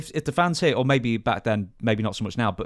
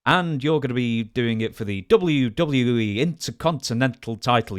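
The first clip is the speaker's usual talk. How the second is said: lightly mimicked wrestling promo voice, emphatic; a hint of announcer emphasis on every word; imitated promo announcement; 3 dB louder than usual. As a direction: announce a title match in mock promo style. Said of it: "also if she's describing a title, it's like".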